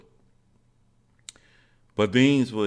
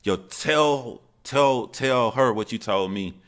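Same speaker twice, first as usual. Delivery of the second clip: higher, louder acted-out excited urging; happy, proud mom; 6 semitones higher, 5 dB louder, slower than usual. Happy mom urging son to share what he learned, acted excitedly. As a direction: imitate a happy mom egging the child on. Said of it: "my mom is all happy".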